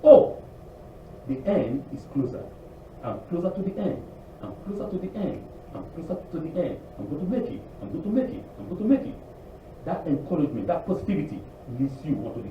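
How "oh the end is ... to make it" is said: encouraging self-talk. Retold or imitated. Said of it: "But you can say this way".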